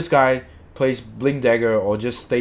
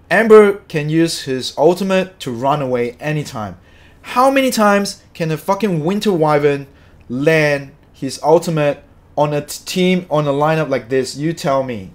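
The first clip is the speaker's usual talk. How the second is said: heated, louder, pressing every point; real angry rant; 3 semitones higher, 6 dB louder than usual. Real, not acted. Streamer ranting about the Winter Wyvern pick, angry. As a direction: argue it hotly, demanding an answer. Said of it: "Sorry, I'm so angry".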